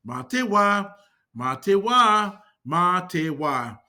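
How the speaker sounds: "Mā te wā" slowing down over the repeats; pronunciation demonstration. Shown as a demonstration. Teacher showing how to say see ya, "Mā te wā" slow and deliberate. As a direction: model "Mā te wā" slowly for learners. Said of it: "Say it like this".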